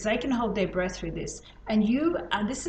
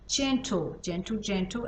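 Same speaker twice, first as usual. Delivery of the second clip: soft coaching; 3 dB quieter than usual. Shown as a demonstration. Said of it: "it's light".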